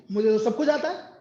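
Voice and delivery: imitating a smug know-it-all, with a rise at the end; lightly mock the student's self-praise; mock boast. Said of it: "अपने आप में मिट्ठू बनना".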